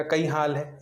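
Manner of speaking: कई हाल है in a light Malwi lilt; Malwi dialect. Shown as a demonstration. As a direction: greet the Malwi way. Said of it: "तो इसका हो जाएगा".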